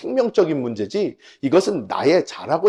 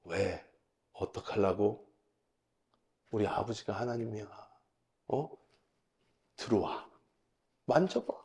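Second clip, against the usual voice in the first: quiet, cocky dare, climbing in pitch; grinning taunt; 4 dB quieter than usual. Retold or imitated. Boy dares the nightmare spirits to touch him, quietly smug taunt. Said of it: "씩 웃으면서 걔네를 이렇게 보면서".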